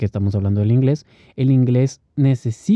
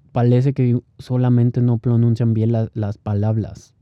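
mock Puerto Rican accent, R turned to L. Joking about Puerto Ricans' pronunciation, imitated Puerto Rican accent. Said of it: "Puerto Rico es muy chistoso el, el acento".

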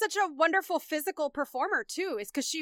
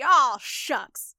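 a light, bashful aw-shucks, a bit louder; aw-shucks sweetheart; 7 dB louder than usual. Retold or imitated. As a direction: shrug it off like a shy nice guy. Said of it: "he definitely could do the".

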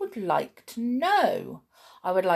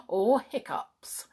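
laughing; 4 semitones higher, 3 dB quieter, slower than usual. Real, not acted. Laughs while correcting.

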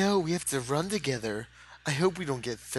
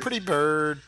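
parrot voice; slower than usual. Pretend. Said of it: "It's a Freddy bird".

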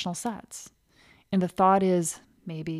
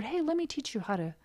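mentor; 5 dB quieter than usual. Retold or imitated. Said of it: "Getting mentored".

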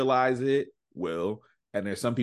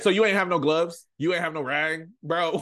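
retold incredulous call-out; 7 semitones higher, 3 dB louder than usual. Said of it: "I said".

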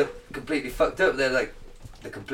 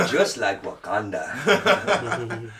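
put-on generic African accent; 2 semitones lower, much slower than usual. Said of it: "This is my generic African accent".

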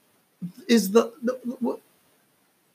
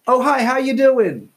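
mock greeting; 6 semitones higher, 3 dB louder than usual. Mocking the president's greeting.

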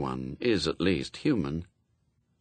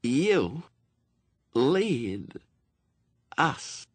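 eerie voice; 5 semitones higher, much slower than usual. A narrator's reading. Famine speaks to Adam.

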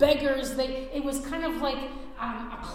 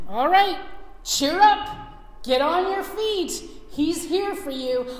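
loud, higher, eager call; calling out cheerfully; 5 semitones higher, 8 dB louder than usual. Acted. Crowd calling the blind man to his feet, loud and eager. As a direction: hail him to get up. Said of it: "they called to the blind man".

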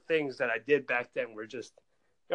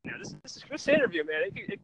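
excited shout; 8 dB louder than usual. Real, not acted. Hyped up outdoors.

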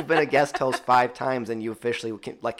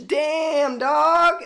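shouted, much higher "Damn, dog"; surprised exclamation; 7 dB louder than usual. Real, not acted. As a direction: blurt it out in amazement, loud. Reacting to the percentage.

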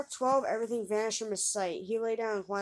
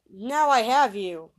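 triumphant shout; 9 dB louder, slower than usual. A narrator's reading. Youth traps the old man.

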